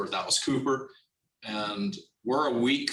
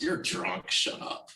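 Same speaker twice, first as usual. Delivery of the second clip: dismissive, breathy unvoiced brush-off; 6 semitones higher, slower than usual. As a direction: wave off a drunk friend. Brushing off drunk friend's claim.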